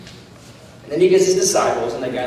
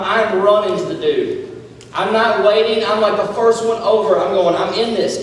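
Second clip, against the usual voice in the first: higher, excited first-person preaching; eager preaching; 5 semitones higher, 5 dB louder than usual. Acted. Preacher imagining himself as Peter on the boat, eager and energized. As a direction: act out jumping at the chance, energy up.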